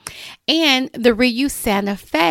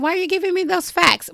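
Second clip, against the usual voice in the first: imitating viewer; 8 semitones higher, faster than usual. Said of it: "you're probably saying".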